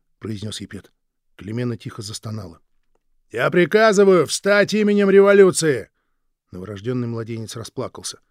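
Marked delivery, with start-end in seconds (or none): 3.3-5.9 loud, slow and high order; commanding shout. Acted. Revolutionary guard ordering Klimena up, shouting. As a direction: hammer each word as a command.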